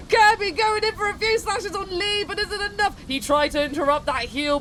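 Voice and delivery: lively play-by-play commentator; sports commentary. Acted. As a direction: call the fight like a sportscaster. Live play-by-play of the fight.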